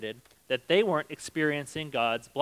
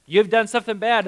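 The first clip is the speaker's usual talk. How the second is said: God scolding; 7 semitones higher, 8 dB louder than usual. Acted. Preacher voices God scolding Israel.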